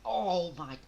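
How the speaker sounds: slow, high, drawn-out awe; stunned disbelief. Real, not acted. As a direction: let it sink in. Shocking move in the match.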